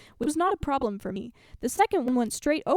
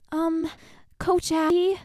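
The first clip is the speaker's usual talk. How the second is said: put-on higher-pitched girl asking for attention; impatient young player; 6 semitones higher, 3 dB louder, slower than usual. A narrator's reading. Chloe interrupting her coach, impatient and higher. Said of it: "waving her hand very impatiently".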